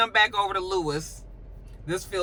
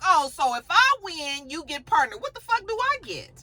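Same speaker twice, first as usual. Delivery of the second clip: outraged retort; 9 semitones higher than usual. Retold or imitated. Jax outraged at partner deal.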